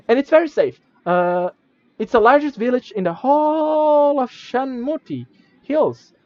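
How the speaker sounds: a chatty little sprite as guide; tiny creature. Acted. Minimite tells the traveler about the village, high and chatty.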